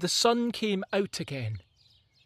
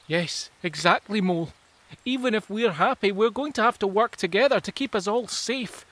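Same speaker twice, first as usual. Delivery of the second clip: lightly voiced creature; 5 semitones higher, 4 dB louder than usual. Creature replies to mole.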